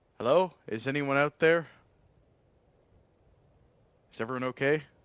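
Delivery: high, carrying call projected into the distance. A game master voices a character who gets up and starts calling out. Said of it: "just call out".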